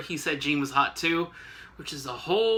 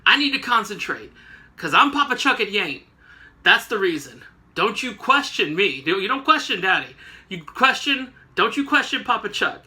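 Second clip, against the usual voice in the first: put-on a touch of an indignant father telling off his kids; imitating a pompous, annoyed boss; mock angry rant; 3 semitones higher, 4 dB louder than usual. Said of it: "snapping again at the X-Men".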